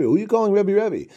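the ugly man mocking the townspeople who call someone Rebbe, indignant; indignant scoff. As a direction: scoff at them as if the title is absurd.

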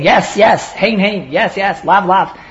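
each pair of words stressed with a falling tune; emphatic repetition. Retold or imitated. Teacher showing how an emphatic oath sounds, firm. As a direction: pound the doubled words home. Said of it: "emphasizing his statement by saying".

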